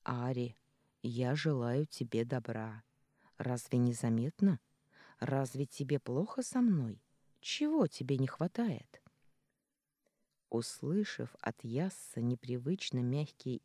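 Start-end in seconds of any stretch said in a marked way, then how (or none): 0.0-9.0 gentle voice. Acted. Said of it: "говорит ласковым голосом".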